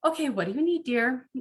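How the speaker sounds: mock sweet sarcasm. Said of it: "you can't be like".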